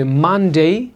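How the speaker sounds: "Monday" starting with both lips together, stretched; lips pressed for M. Shown as a demonstration. Teacher showing learners the lip position, careful "Monday". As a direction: close the lips firmly on the M of "Monday". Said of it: "দুই lip এক করে".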